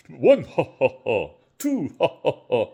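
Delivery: counting through real giggles; laughing at her own fuss over two blends. Real, not acted. Home cook counting her two spice blends, laughing.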